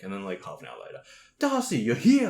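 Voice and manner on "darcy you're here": put-on much higher, louder drunk delight; drunk friend. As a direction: greet him like a long-lost mate, drunk. Drunk friend greets again.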